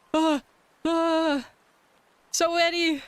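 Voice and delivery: high delighted squeals; excited squeal. Real, not acted. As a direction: squeal at the flood of follows. Follows flood in.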